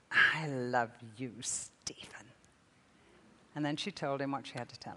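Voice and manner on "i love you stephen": tender whisper. Retold or imitated. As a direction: whisper the name tenderly, like a mother. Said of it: "which she always does".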